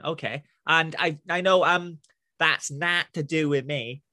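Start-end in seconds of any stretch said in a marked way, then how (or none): 2.4-4.0 slow, lower Northern try sliding into New York gangster; botched Northern accent, drawn out and low; attempted Northern accent. Shown as a demonstration. Southerner trying a phrase, Northern accent gone New York. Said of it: "like a, a New York gangster".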